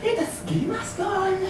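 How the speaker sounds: high, loud, breathless laughter; laughing hysterically. Real, not acted. Telling the detective about the fall, high laughing. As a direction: tell it while cracking up.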